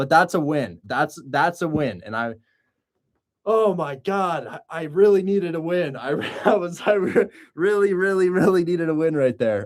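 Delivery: excited outburst. In front of viewers, the speaker finally gets a much-needed win, freaking out. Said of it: "Sorry for freaking out".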